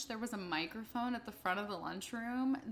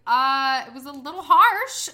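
awkward protest; 4 semitones higher, 14 dB louder than usual. Retold or imitated. Retold awkward reply to poet.

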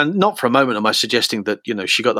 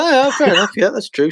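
retold reply; 10 semitones higher than usual. His own retold reply.

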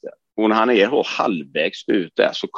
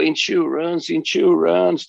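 a retold cry for help, pitched up; imitating yelling; 7 semitones higher, slower than usual. Hurt car salesman on the kerb, mock yelling about insurance. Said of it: "så började han bara skrika då".

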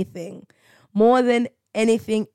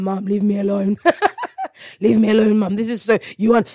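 laughing protest; faster than usual. Retold or imitated. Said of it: "I'm like".

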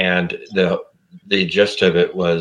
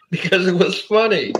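retold reply; 11 semitones higher than usual. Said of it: "And he said".

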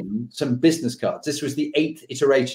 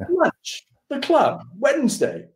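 terse general; 13 semitones higher, slower than usual. Retold or imitated. General repeating terse invitation.

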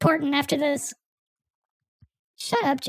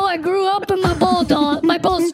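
putting on a big-man deep voice; mock deep voice. Guest claiming a deep voice after being mocked. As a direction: drop the voice to sound grown up. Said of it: "I have a very deep voice".

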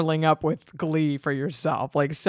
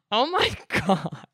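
laughing oh my god; 2 semitones higher than usual. Real, not acted.

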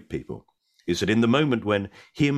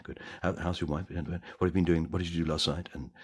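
softly voiced backstage chatter between actors; hushed backstage chat; 5 dB quieter, faster than usual. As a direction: keep it hushed and casual, just behind the curtain. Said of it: "just chatting and talking".

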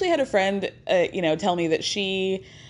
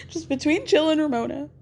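retold quiet confession; 6 semitones higher than usual. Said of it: "quietly tells Kelly".

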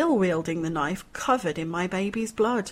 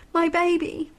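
anguished; 10 semitones higher than usual. A narrator's reading. Mother sees dying son.

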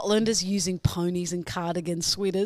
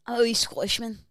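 put-on higher, clumsy Scottish accent; parroted Scottish accent; 4 semitones higher, faster than usual. Co-host parrots the host's line, imitation Scottish accent. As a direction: copy a Scottish accent, not quite there. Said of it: "it's getting there".

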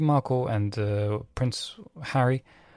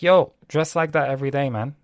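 excited compliment; 4 semitones higher, 5 dB louder than usual. Retold or imitated. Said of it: "And I was like".

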